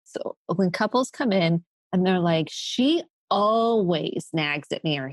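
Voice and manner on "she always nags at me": drawn-out "always" in a mock grievance; complaining spouse. Acts complaining spouse in therapy.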